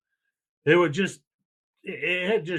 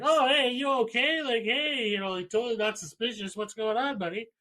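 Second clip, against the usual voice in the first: mock innocent greeting; 7 semitones higher than usual. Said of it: "We're like".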